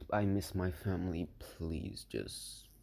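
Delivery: low, soft plea trailing off; voiced thought. A narrator's reading. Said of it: "it was just a thought".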